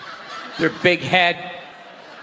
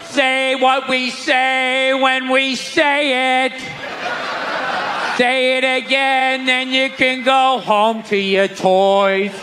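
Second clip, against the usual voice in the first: mock church leader; 3 semitones higher, slower than usual. Comic playing church leader ordering kids, slow and sing-song. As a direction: lay down the rule slowly, like a bored pastor.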